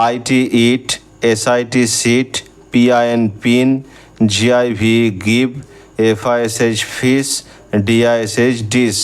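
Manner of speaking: letters of ইট spelled, then the word said slowly. Shown as a demonstration. Teacher spelling words for students, then saying them slowly. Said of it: "হসই উচ্চারণ যেগুলোতে হয়".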